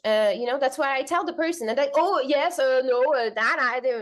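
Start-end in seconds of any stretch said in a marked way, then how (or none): 2.0-3.9 mock flustered excuses. Imitates Dane's flustered excuses.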